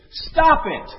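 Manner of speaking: sudden high, loud comic yell. Retold or imitated. Psychiatrist to a baffled patient, comic yell. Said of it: "he yells at her again".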